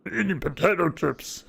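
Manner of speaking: a half-hearted cartoon voice; a hint of Fat Albert; mock Fat Albert. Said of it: "that just sounds like Fat Albert".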